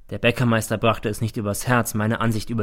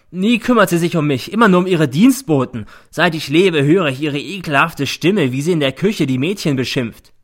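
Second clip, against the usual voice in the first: raised, loud bitter tirade; angry shouting; 6 semitones higher, 8 dB louder than usual. A narrator's reading. Son denouncing his mother, angrily shouting. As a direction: pour out the old grievance. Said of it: "schreit er".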